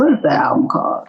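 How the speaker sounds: whispering the question to herself; whispered to self. Real, not acted. Guest whispers to herself, trying to recall the title, hushed.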